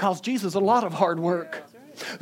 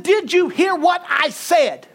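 loud, high, slow and emphatic; acted-out stern repetition; insistent shout; 11 semitones higher, 7 dB louder, slower than usual. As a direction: demand it word by word from someone frozen. Repeating his order louder, retold.

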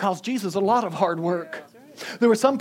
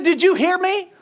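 high, loud demand; acted-out forceful shout; insistent raised voice; 12 semitones higher, 7 dB louder than usual. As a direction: press someone who hasn't responded. Retelling his insistent order.

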